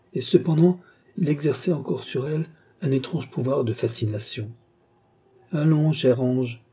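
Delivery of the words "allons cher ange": slow, falsely tender coaxing; hypocritical sweetness. A narrator's reading. Count coaxing the frightened Marthe, hypocritically sweet. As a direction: coax with put-on sweetness, drawn out. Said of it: "avec une hypocrite douceur".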